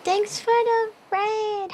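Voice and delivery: high, loud, slow squealed welcome; excited greeting. Real, not acted. Streamer squealing hello to raider Nebula. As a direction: greet the raider at the top of your voice.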